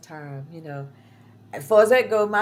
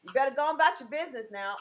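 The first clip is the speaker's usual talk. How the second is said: warning the dog; 4 semitones higher, 8 dB louder than usual. Retold or imitated. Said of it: "I said".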